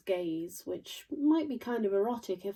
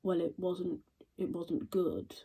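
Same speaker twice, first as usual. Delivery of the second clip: deadpan; slower than usual. Retold or imitated. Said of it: "completely deadpan and says".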